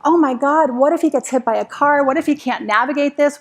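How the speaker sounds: quick rising panicky worry; panicked. Retold or imitated. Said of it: "then I panicked".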